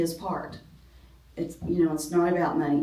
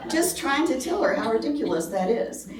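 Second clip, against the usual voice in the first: higher, laughing as you talk; still laughing; 6 semitones higher than usual. Real, not acted. Preacher explaining her joke, still laughing. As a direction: explain while still amused.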